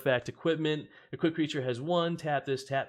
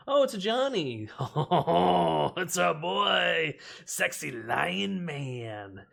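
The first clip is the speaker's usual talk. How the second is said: high, loud delighted squeal; excited; 5 semitones higher, 5 dB louder, much slower than usual. Real, not acted. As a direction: gush over the favourite card. Excited pull of favourite card.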